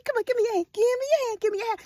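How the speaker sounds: high-pitched mock coaxing. Imagined cop asking Jeffrey for his hands, coaxing.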